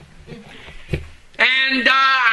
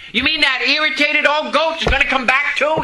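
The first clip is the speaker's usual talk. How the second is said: higher, incredulous complaint; lightly voiced shocked churchgoer; mock indignant objection; 7 semitones higher than usual. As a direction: play the grumbling congregant. Imagined listener objection.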